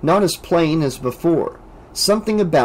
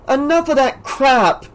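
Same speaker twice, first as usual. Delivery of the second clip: snapped; 11 semitones higher than usual. A narrator's reading. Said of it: "Debbie snapped".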